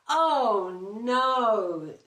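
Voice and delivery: loud, fed-up "oh no"; loud weary bear complaint; exasperated bear groan. Acted. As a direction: groan it out, at the end of his tether. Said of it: "said Mister Bear".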